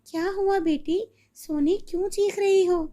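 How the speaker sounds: rushing in alarmed; mother hearing her daughter scream, anxious; worried mother. Acted.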